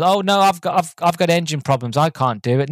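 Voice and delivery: high mock whine of a scared pilot; hammed-up cowardly pirate moaning. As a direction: whinge out the excuse like a coward dodging a fight. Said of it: "they're all moaning".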